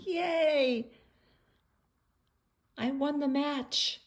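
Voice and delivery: high, mock victory cheer; little boxer cheering. Little boxer celebrating the match, high cheer.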